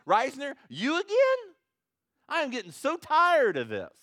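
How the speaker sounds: high, loud fed-up sigh of a God; exasperated God. Pretend. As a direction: play God as sick of him, shouting. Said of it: "what does God do when we come".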